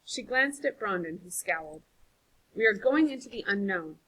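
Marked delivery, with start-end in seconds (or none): 2.5-4.0 sternly. Acted. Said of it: "she said sternly".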